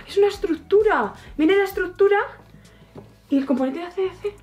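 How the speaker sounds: high squealed discovery; thrilled unboxing a big set; excited squeal. Real, not acted. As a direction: shriek it out in delight.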